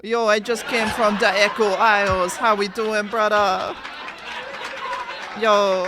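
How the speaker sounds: loud, high Caribbean-style troll; troll accent. Pretend. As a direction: boom it out as a game troll. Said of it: "Bro, not Jamaican".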